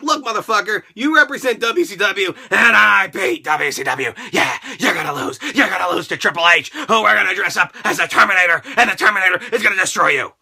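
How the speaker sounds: a hint of a gruff promoter laying down the law; Vince McMahon. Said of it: "Vince McMahon's like".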